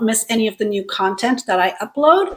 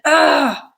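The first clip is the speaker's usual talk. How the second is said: an exasperated ah, let out in annoyance; frustrated ah; 4 semitones higher than usual. Shown as a demonstration. Showing learners the sound you make when frustrated, exasperated ah. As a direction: sigh out a fed-up ah. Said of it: "when we are frustrated".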